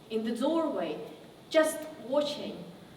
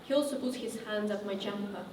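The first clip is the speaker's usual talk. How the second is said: quiet and low, with long pauses; subdued painful recollection; 3 semitones lower, 8 dB quieter than usual. Acted. Survivor recounting abuse by a TV host, subdued and halting. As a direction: confide it haltingly, softly.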